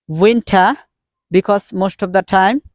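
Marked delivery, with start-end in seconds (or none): 0.1-0.8 "winter" without R, WIN-tah; British pronunciation. Shown as a demonstration. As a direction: end "winter" on an open A. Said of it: "So British sounds is".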